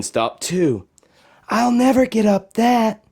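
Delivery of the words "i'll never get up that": put-on high, small voice of a worried girl; Josephine despairing. Girl facing a snowy mountain, higher and despairing. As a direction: sound defeated at the foot of a mountain. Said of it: "she said".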